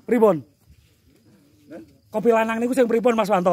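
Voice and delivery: calling out. Real, not acted. Calling out to a distant man.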